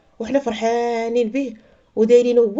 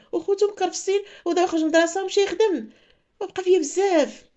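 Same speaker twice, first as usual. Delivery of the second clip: tearful daughter; 6 semitones higher than usual. Retold or imitated. Daughter tearfully explains to father.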